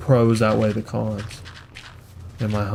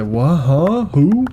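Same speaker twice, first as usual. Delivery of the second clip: confused; 5 semitones higher, 6 dB louder, much slower than usual. Retold or imitated. Confused stranger asked odd question.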